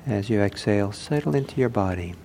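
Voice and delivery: unhurried guidance with long silences; calm meditation teacher, leaving room between phrases; guided meditation. Acted. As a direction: lead the sitters gently into stillness.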